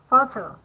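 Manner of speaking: "photo" stressed PHO-to; stress on first syllable. Shown as a demonstration. Teacher showing where the stress word is, first-syllable stress on "photo". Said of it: "at the first syllables".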